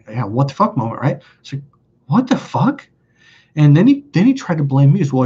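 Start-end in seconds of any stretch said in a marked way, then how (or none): 2.1-2.9 high-pitched, incredulous replay; mock stunned outburst; retold disbelief. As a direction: let the disbelief jump up in pitch. A what-the-fuck moment retold.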